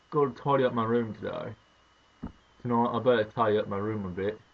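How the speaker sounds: mock English accent for a local phrase; put-on British accent. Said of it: "In England, what they'd say is".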